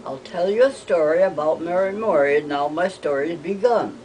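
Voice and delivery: lilting recital of a rhyme; rhyme recitation. Acted. Mother passing on a story rhyme, lilting recitation. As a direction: recite the little verse in a regular lilt.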